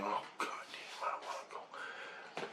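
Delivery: hushed re-enacted inner voice; reluctant dread. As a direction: whisper it to yourself, dreading it. Acting out own frightened thought.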